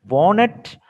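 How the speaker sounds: "Walnut" for wanted, middle T dropped; reduced wanted, heard as "Walnut"; accented reduced form. Shown as a demonstration. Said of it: "but that is the accent".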